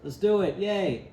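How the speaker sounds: mock-excited inner thought building to a cheer; excited idea voice. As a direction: play the thrilled inner voice cheering a great plan. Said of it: "it's like".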